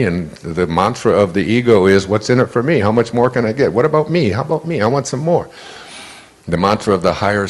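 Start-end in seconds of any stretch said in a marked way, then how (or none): 2.1-5.5 greedy ego voice. Retold or imitated. Voicing the ego's greedy mantra.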